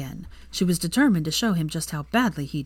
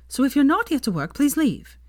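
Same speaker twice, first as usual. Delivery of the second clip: irritated; 8 semitones higher, 3 dB louder than usual. A narrator's reading. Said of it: "she snapped".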